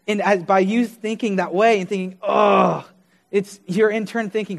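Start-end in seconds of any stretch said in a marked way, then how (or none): 2.2-2.9 drawn-out groan of dismay; self-disgusted groan. Retold or imitated. Preacher voices a condemning thought, dismayed groan.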